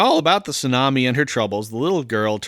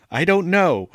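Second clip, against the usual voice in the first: put-on high little-girl whine; hammed-up tearful child; mock wailing child; 6 semitones higher, 3 dB louder than usual. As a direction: whine it like a lost child about to bawl. Lost girl about to wail.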